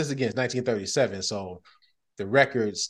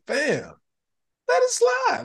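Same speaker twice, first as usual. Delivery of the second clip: mock plea; 4 dB louder, slower than usual. Acts out pleading with culprit.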